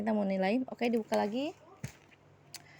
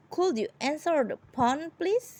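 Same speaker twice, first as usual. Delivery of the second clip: polite request; 5 semitones higher than usual. Shown as a demonstration. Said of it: "would itu lebih sopan lagi".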